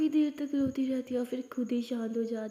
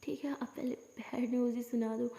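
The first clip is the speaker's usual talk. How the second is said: upset stammer; 3 semitones lower, 6 dB quieter than usual. Acted. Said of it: "upset होके बोलती है".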